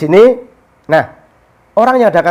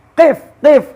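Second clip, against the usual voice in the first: mock shout; 9 semitones higher than usual. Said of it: "teriak dia".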